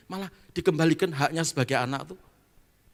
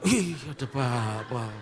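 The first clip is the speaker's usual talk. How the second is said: delighted laugh; slower than usual. Acted. Patient delighted to see pastor.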